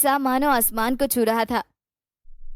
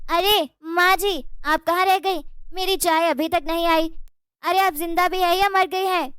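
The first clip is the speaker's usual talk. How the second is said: calling out loudly; 4 semitones higher than usual. Acted. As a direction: bellow for the mother-in-law. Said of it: "चिल्ला रही थी".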